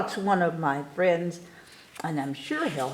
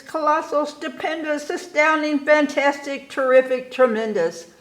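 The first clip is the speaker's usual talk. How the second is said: building showman boasts; 7 semitones higher than usual. Acted. Building list of circus boasts.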